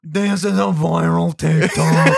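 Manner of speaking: slow, laughing through it. Real, not acted. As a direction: laugh out the words. Laughing at the thumbnail.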